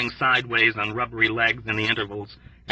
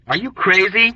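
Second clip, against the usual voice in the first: higher, louder disbelieving exclaim; exclaiming in disbelief; 9 semitones higher, 5 dB louder than usual. A narrator's reading. Dobbs to Yossarian about his leg wound: loud disbelief. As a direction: throw it back in sheer disbelief. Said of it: "Dobbs exclaimed in disbelief".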